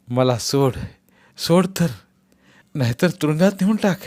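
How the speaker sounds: lightly voiced exhausted old man; weary prisoner. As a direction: beg to be freed, worn out. Exhausted Bapu pleads.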